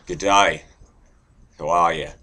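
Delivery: rough attempt at an Australian greeting; Aussie accent. Shown as a demonstration. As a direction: try out an Aussie accent, punchy. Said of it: "Aussie, too".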